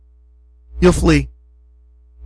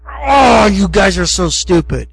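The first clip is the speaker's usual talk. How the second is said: mock exasperated anger; slower than usual. Moses to the idol-worshipping people, mock angry exasperation. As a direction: act out fed-up fury, not at full volume. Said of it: "burning with anger".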